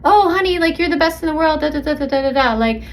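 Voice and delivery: hammed-up loving partner; gushing partner. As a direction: lay on sweet reassurance. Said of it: "they might say".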